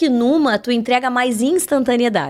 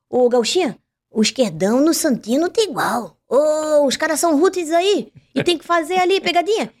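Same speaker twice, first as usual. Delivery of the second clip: put-on Florianópolis accent; 3 semitones higher than usual. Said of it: "que ele falava o tempo inteiro assim".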